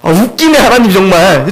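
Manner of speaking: slow, scoffing aside to God, half laughing at Him; a mild mock scoff, drawn out. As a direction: sneer at the promise as Abraham would. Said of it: "지금 비웃는 거예요".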